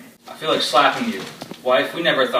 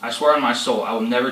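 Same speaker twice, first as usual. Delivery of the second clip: loud, relentless fury; raging father; 4 dB louder than usual. Acted. Father threatening his disobedient daughter, loud and furious. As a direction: let the anger boil through every line.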